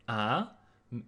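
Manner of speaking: ah rising, second tone; 第二声的啊. Shown as a demonstration. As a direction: lift ah upward like a question. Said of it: "pronounced in the second tone".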